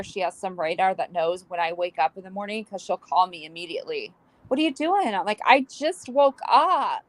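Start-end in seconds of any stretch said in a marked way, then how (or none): 4.5-5.1 mimicking daughter. Daughter's call voiced. 5.4-7.0 groggy reply. Retold or imitated. Own groggy reply retold.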